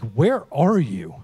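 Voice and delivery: put-on loud, slow, drawn-out child's question; imitated little daughter. Daughter questioning her absent-minded dad, loudly imitated. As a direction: stretch it out, imitating an insistent small child. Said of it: "And she's like".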